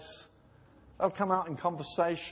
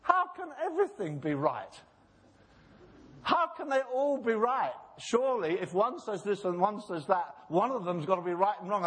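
higher, pressing questions; Larry King challenging the bishop, pressing; Larry King's challenge; 4 semitones higher than usual. Retold or imitated. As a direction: press him like an interviewer. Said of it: "and said".

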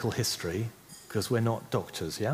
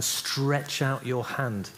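word of command; 3 semitones higher, much slower than usual. Shown as a demonstration. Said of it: "it's a word of command".

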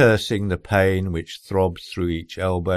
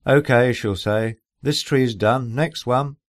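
brisk wife voice; 6 semitones higher than usual. Retold or imitated.

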